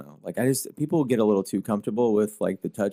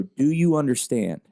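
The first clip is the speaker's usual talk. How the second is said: slow, firm check-in to a daughter; firm question; 3 semitones higher, slower than usual. Retold or imitated. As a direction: ask it steadily, a touch slower. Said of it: "And I'll always go".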